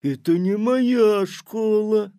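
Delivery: high, loud, slow disbelief; astonished denial. A narrator's reading. Petya denying to Tik-tak it's his school, disbelieving.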